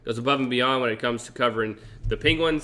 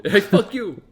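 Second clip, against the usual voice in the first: yelling; 8 semitones higher, 6 dB louder, slower than usual. Retold or imitated. Imitating ref swearing, laughing.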